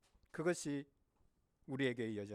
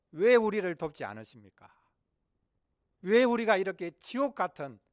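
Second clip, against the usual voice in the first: loud burst of anguished protest; crying out; 5 semitones higher, 10 dB louder than usual. Acted. People in Gaza crying to Allah, loud desperate appeal. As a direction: hit the opening hard, pleading for help. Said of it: "부르짖고 있지 않겠나 생각을 해봅니다".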